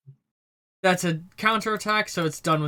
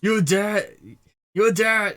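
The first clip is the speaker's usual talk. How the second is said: put-on half-hearted German accent, a bit raised; attempted German accent; 3 semitones higher, slower than usual. Game master voicing the one who kicks the door open, attempted German accent. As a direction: try a German accent and fail. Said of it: "I can't do a German accent".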